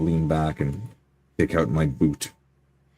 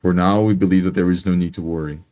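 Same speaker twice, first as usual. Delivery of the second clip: composed, slightly raised voice to a room; calm, concise address; 2 semitones higher, 5 dB louder than usual. Pretend. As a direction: address the crowd calmly and firmly. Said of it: "calm, concise voice".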